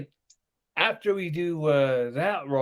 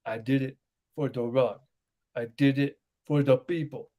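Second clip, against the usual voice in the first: lightly imitated solemn wrestler line; mock dead-serious quote; 3 semitones lower than usual. Quoting Rikishi's famous line on request, mock dead-serious. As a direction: deliver the famous line with mild mock gravity. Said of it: "he was dead ass serious when he said that".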